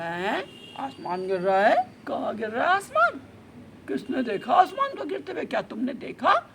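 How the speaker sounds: loud, imperious cross-questioning; sceptical lion. Acted. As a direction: demand proof as the king of the jungle. Lion loudly questions the elephant's claim. (शेर की रौबदार पूछताछ)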